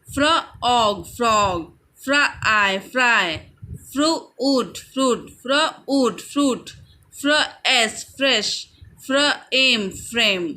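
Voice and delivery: slow phonics drill, फ्र, ending, then whole word as in फ्रेम; slow, segmented word-building from फ्र; sounding out blends. Shown as a demonstration. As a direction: slowly split फ्रॉग into फ्र and ऑग, then say it whole. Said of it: "एफ़ आर हो गया sound फ्र".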